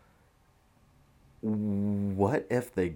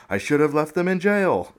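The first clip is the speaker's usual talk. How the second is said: mock Trump; 9 semitones higher, 9 dB louder than usual. Reading Trump's tweet aloud, mock.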